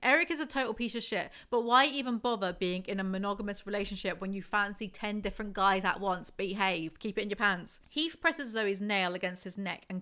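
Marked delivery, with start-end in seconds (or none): 0.0-7.8 scolding. Real, not acted. Scolding the character.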